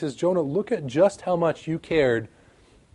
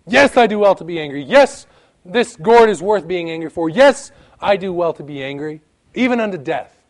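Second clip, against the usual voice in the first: louder, insistent Jonah pressing each yes; stubborn angry Jonah; 5 dB louder than usual. Acted. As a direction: dig in and defend the gourd angrily. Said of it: "Interesting response".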